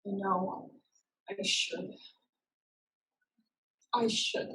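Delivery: whispered, barely voiced; ashamed whisper. Daughter admitting shame to her ancestor, whispered. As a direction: breathe it out in shame.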